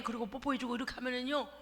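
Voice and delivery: ordinary talk, nothing marked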